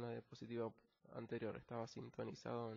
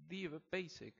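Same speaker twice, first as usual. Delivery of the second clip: "the basic" with "the" stressed and a bit higher; emphatic the; 4 semitones higher than usual. Shown as a demonstration. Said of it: "resaltando que es lo básico". ("the basic" enfatizando "the")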